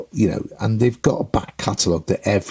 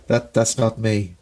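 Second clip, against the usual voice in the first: terse singer reply; slower than usual. Retold or imitated. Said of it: "a singer goes".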